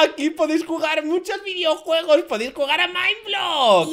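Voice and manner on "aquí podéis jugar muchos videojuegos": ordinary talk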